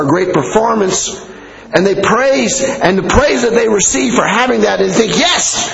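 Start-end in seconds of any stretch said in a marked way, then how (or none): 5.2-5.7 eager admirer. Acted. Acting out envious admirer's reaction.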